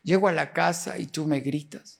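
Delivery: retold tearful plea. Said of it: "comencé a llorar y le dije". (súplica abatida, relatada con voz cada vez más baja)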